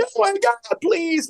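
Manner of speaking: put-on sitcom-style weepy crying, very high pitch. Mocking a sitcom character's crying moment: imitating Laura's sappy crying plea. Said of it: "sitcom, sappy message, crying".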